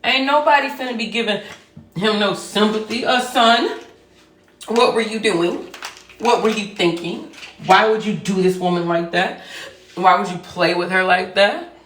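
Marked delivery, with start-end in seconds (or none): 3.0-11.7 loud stern mom grilling her son; louder mock scolding; scolding mother. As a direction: scold him like a disappointed mother. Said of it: "if my son ever did something like that".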